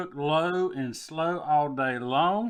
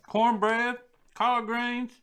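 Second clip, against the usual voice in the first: excited; 9 semitones higher, 3 dB louder, slower than usual. Real, not acted. Naming the food with relish.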